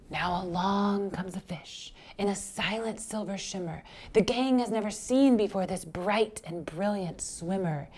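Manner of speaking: softened storytelling, full of wonder; hushed narration. A narrator's reading. Teacher introduces a shimmering new fish, hushed wonder. Hushed reading as stranger arrives.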